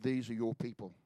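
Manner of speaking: hushed, gentle rebuke; gentle voice of the Spirit. Retold or imitated. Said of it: "the Holy Spirit so very gently said to me".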